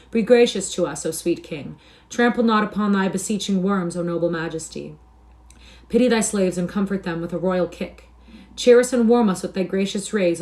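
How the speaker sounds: loud, hammed-up pleading; mock-grovelling appeals, each starting strong and falling away; mocking supplication. A narrator's reading. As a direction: beg with exaggerated reverence. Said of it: "ironical wailings and mocking supplications".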